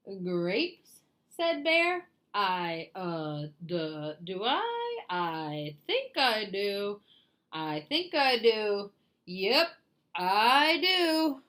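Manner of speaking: slow, dopey bear; lightly voiced dopey bear; dim bear voice.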